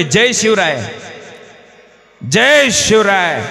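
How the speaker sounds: put-on slow, slurred drunken chant of जय शिवराय; drunk man. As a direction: imitate a drunk dragging out his greeting. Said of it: "एक जण म्हणतोय". (दारुड्याची संथ, जड आरोळी)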